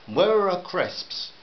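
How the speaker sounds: a slow, stern father's question; stern demand. A narrator's reading. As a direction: demand an answer, spacing the words. Father interrogates son.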